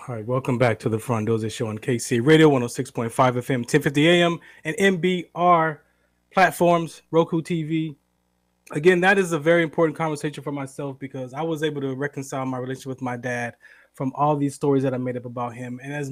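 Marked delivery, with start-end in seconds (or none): 0.1-10.5 radio announcer. Acted. Radio host reopens show.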